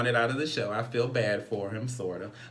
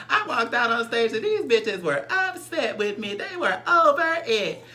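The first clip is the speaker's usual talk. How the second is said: Dre Simber; 12 semitones higher, 6 dB louder than usual. Retold or imitated. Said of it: "I'm gonna talk in his voice".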